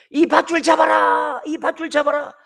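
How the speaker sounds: put-on loud call to a drowning boy; urgent shout from the riverbank; shouted instruction. Adult on the bank shouting to drowning boy.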